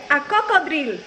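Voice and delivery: "A cocodrilo" read as Spanish words in an English text; mispronounced English. Retold or imitated. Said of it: "Entonces yo decía". ("A cocodrilo" dicho en español dentro del inglés)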